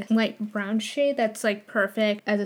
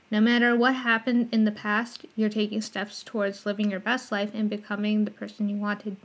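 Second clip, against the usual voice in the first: slurring around a retainer; wearing a retainer. Real, not acted. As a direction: talk with a retainer in. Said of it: "I'm starting to, like, slur all my words when I talk with it on".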